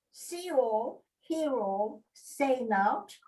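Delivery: broad Yorkshire motto, spoken in short separate phrases; Yorkshire accent. Pretend. Reciting a Yorkshire Tykes motto to the group on request, Yorkshire accent. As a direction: put on your best Yorkshire accent. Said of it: "in my best Yorkshire accent".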